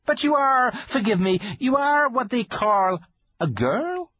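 high, timid fawn voice; nervous polite faun; shy fawn voice. Acted. Fawn character voice.

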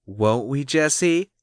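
high-voiced coaxing; coax, lifting the name at the end; high, persuasive appeal. A narrator's reading. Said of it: "coaxed Cassie".

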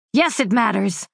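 quick sharp comeback; snapping retort. Acted. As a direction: bite back at him. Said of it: "Marcus snapped".

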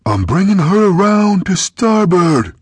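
high, loud captain's yell; shouting over gunfire. A narrator's reading. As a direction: make it carry over the cannon. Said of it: "Kyla shouted over the thunder of the gunfire".

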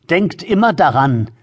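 put-on threatening old woman. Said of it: "fuhr in drohendem Ton fort".

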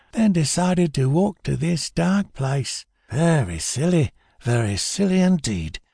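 high, mocking weaselly voice; sneering rat-faced thug. Rat-faced robber taunting Bill, sneering high voice. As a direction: sneer up at him like a sly little rat.

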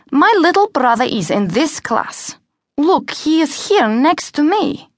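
insistent Cengiz. Acted. Pupil correcting the teacher about his brother, insistent. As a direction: state it firmly, word by word.

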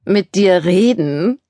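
slow, mocking drawl of a jock; arrogant. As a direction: sneer it like a cocky quarterback. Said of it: "im arroganten Tonfall eines Highschool-Quarterback".

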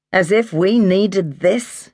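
a mild, slow cross grumble; an older woman sulking at the snow; crossly. A narrator's reading. Maggie grumbling to Mary about the snow, mildly cross. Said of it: "Maggie said crossly".

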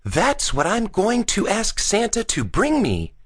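put-on high-pitched young boy voice; eager boy Gus. Gus telling Bean his Santa wish, eager high boy voice.

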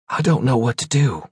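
a touch of fear in the voice; fearful. Acted. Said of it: "full of fear and worry".

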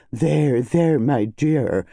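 comforting with a touch of relish; with some relish. Acted. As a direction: savour the soothing words slightly. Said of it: "with some relish".

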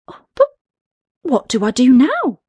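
high, curious little balloon; a small creature asking. Acted. Balloon asks.

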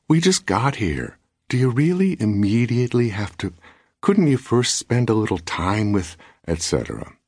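wife chiding husband who rushes off to write, mildly reproachful. A narrator's reading. Wife reproaching him on carpet.

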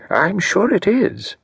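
mean every word of it, slowly; earnest. Acted. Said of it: "said Mister Satterthwaite earnestly".

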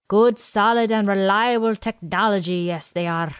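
lightly voiced old quartermaster; a hint of a chatty old supply man. Quartermaster Willie explains supplies to Janae and Ken, lightly voiced old man.

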